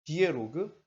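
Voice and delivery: slow formal read-out; measured demonstration reading; long-winded reading. Shown as a demonstration. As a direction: read the term out slowly, in full. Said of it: "이렇게 읽지".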